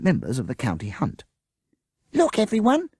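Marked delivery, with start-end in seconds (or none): 2.1-2.9 put-on high, loud child's shout. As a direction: call out to everyone, waving the bag. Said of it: "Avril shouted".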